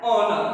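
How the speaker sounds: ऑनर said with the h silent, o sound first; ऑनर starting straight on o; pronunciation demo. Shown as a demonstration. Teacher repeats ऑनर showing the o sound. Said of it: "ओ sound आ रहा है".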